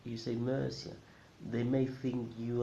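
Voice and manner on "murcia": Murcia as MER-see-a; English mispronunciation. Shown as a demonstration. Teacher warning learners, Murcia mispronounced as MER-see-a. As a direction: say Murcia with er in place of oo. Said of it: "a native speaker will not understand".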